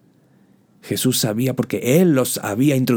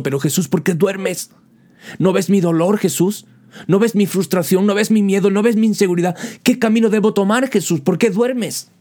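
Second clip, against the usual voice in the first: anguished plea; 7 semitones higher, 3 dB louder than usual. Acted. Believer cries out to sleeping Jesus.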